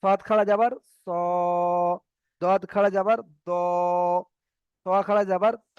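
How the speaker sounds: final "স", "দ", "ত" held on a rounded o; full-mouth letters. Shown as a demonstration. Teacher drills the heavy letters, rounded "স", "দ", "ত". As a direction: spell it out, then a long round o on "স", "দ", "ত". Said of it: "এগুলো হলো পুর অক্ষর".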